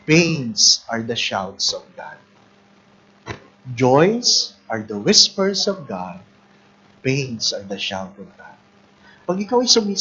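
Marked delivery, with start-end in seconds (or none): 0.0-2.2 solemn quotation. Acted. Slowly quotes a saying. 3.7-8.6 solemn quotation. Acted. Repeats the saying slowly.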